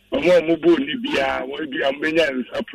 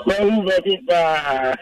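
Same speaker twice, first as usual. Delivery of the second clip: slow drawn-out echo; much slower than usual. Real, not acted. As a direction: stretch every word out slowly. Caller echoes it, drawn out.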